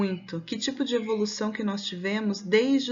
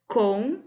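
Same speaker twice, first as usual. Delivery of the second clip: "complicou" split as com, pli, COU with long pauses; syllables, stress on COU; 4 dB louder than usual. Shown as a demonstration. Teacher testing the strongest syllable of "complicou", spaced out and deliberate. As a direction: separate the syllables of "complicou" and lean on the final COU. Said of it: "Qual é a sílaba mais forte?".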